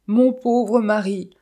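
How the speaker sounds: high, loud, drawn-out wail; sobbing lament. A narrator's reading. Widow suddenly mourning her husband, theatrically sobbing. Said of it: "sanglota-t-elle tout à coup".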